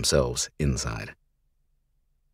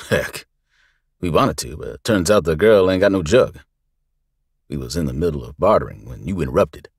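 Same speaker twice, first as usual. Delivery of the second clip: smirking thug; 5 dB louder than usual. Acted. Barrel-chested man smirks at Luke.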